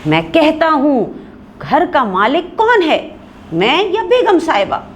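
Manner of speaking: husband angrily asserting his authority; angry. A narrator's reading. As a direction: demand who is master of the house. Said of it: "शौहर गुस्से में".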